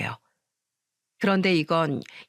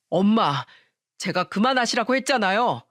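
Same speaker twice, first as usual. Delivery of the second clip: mildly raised voice, cross husband; exasperated shout. Acted. Husband stops eating and protests to his mother, mild shout. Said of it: "시모한테 소리쳤어요".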